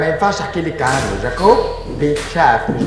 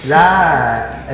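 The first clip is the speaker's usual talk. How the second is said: ordinary delivery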